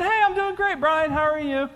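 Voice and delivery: put-on high-pitched Southern older woman; Mary. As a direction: imitate a Mississippi lady's high phone greeting. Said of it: "she was from Mississippi".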